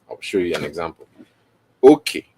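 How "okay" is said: Okay with the first syllable high and the second low; high-low tones. Shown as a demonstration. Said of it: "Okay means, so that is high, low".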